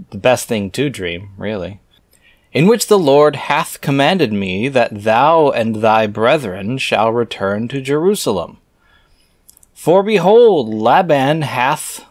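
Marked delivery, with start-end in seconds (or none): 2.5-12.0 put-on slow, solemn reading of old scripture. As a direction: intone the archaic words like a preacher. Reads scripture aloud.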